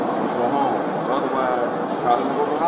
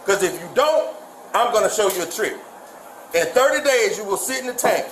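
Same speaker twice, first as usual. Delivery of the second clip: stern scolding; 6 semitones higher than usual. Real, not acted. Officer scolds defiant suspect.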